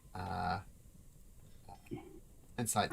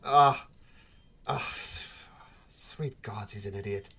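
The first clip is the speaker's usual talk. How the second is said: exasperated sigh. Acted. Shopkeeper fed up with her brother, exasperated and fading. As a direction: groan it out, at wit's end. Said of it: "grabs the bridge of her nose and says".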